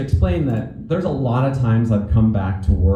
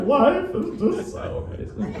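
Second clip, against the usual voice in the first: very high, slow mock sobbing; hammed-up tearful squeal; joking ugly cry; 5 dB quieter, slower than usual. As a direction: blubber it out comically, squeaking high and soft. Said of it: "I joke, 'cause I'm trying".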